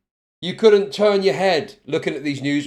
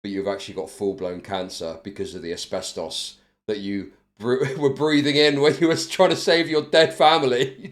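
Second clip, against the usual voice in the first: a hint of a somber doctor; 8 semitones lower than usual. Lightly voiced doctor telling a patient he has cancer, somber. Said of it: "they're like".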